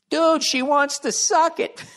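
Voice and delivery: high, slow, laughing through the words; real laughter, half crying. Real, not acted. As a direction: crack up while saying it.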